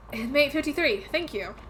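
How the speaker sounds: put-on "Inmate fifty-three" in a relaxed American Southern accent. Player redoing the detective's line, now in a Southern accent. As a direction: give it a Southern twang, falling on "fifty-three". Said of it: "made everyone very southern instead of British".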